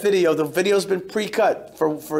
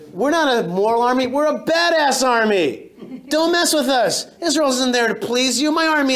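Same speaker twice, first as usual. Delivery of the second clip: defiant; 5 semitones higher than usual. Real, not acted. Defiant declaration to audience.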